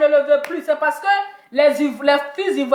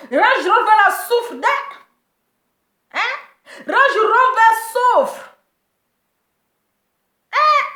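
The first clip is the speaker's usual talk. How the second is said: laughing; 7 semitones higher, slower than usual. Real, not acted. Mocking laughing commentary.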